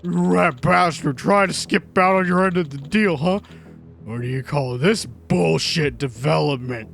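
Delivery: menacing thug. Acted. Yakuza producer threatening the runaway developer, menacing. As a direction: lean in and threaten him like a gangster.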